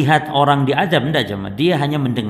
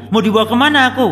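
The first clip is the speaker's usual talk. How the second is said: higher, louder mock scream of the dead; corpse screaming; 8 semitones higher, 4 dB louder, much faster than usual. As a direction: cry it out like a corpse being carried off. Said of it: "kata mayit".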